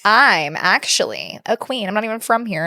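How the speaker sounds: slow, haughty little-girl imitation; sassy child. Imitating a girl claiming royalty to other kids, lightly sassy. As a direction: announce it slowly, with mild sass. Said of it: "she is so sassy".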